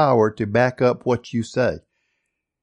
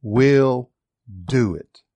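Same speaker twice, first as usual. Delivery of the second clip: slowed down, each word set apart; deliberate German-accented delivery with pauses between words; Reinhard Bonnke; much slower than usual. Retold or imitated. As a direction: imitate a German preacher, word by word. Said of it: "he would slow it down and says".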